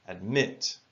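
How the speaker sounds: "Admit" with MIT stressed, ad light; stress on the last syllable. Shown as a demonstration. Teacher demonstrating final stress to learners, MIT of "Admit" leaned on. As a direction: lift and lean on MIT in "Admit". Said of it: "it's stressed at the end of the word".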